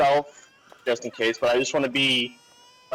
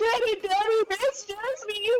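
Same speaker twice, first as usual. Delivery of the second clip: put-on very high, slow little girl's sobbing; 4 dB quieter than usual. Playing a frightened daughter clinging to her father: crying child. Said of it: "holding him and just crying".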